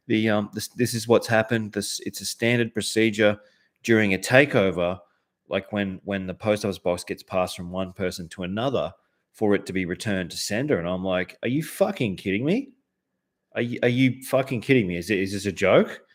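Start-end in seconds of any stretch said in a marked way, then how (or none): 0.1-10.8 apologetic manager. Retold or imitated. Manager apologises to angry customer over returned mail, lightly voiced placating tone. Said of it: "manager comes out and is like". 11.4-16.0 higher-pitched, indignant disbelief; incredulous anger. Retold or imitated. Customer challenges manager over returned cards, retold incredulous anger. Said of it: "I'm saying this shit".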